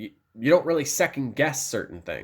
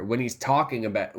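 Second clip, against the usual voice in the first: ordinary talk, nothing marked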